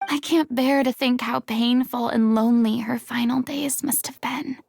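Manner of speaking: sorrowful whisper. Acted. Grieving, unvoiced and fading.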